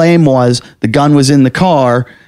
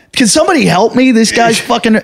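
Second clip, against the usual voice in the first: retold plea for help; 8 semitones higher than usual.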